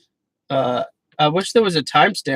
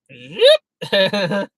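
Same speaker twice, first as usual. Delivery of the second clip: zip sound; 4 semitones higher, 3 dB louder than usual. Retold or imitated. Mimicking razor sound.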